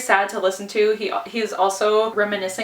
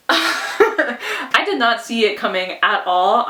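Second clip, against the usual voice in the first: laughing; much slower than usual. Real, not acted. Laughing recalling the twist.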